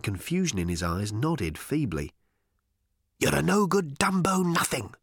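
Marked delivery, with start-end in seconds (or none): 3.2-4.9 demonic whisper. Acted. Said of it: "whispered the creature".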